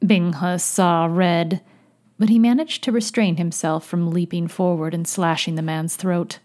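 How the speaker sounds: measured, fuller-voiced audiobook read; story narration. A narrator's reading. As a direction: narrate the tale steadily and clearly. Narrates fiction aloud.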